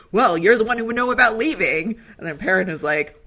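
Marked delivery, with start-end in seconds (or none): 0.1-2.0 bitter jab. Retold or imitated. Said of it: "And then Rand is like".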